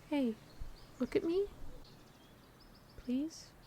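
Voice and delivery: soft, gentle, quiet, tender coaxing voice. Character urging the listener to look at them, softly.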